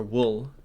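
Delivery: "wool" with the short vowel of "good"; common variant. Shown as a demonstration. Player offering another common form, "wool" with short oo. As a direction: say "wool" to rhyme with "full". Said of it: "a lot of people say".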